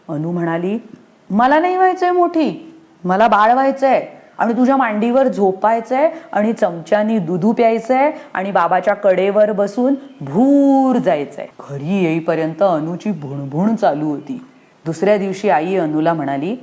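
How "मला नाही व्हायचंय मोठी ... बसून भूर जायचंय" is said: put-on much higher whiny little girl; pleading child. Anu begs her mother to stay a baby, high whine. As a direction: wail the wish like a small child.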